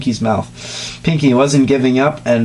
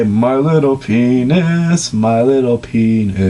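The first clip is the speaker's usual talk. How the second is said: Scootaloo voice; slower than usual. Acted. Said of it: "began to say".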